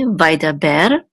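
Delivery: Vaidaber with the final syllable BER stressed; stress on last syllable. Shown as a demonstration. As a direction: lean on the "ber" at the end of Vaidaber. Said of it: "is on the last syllable".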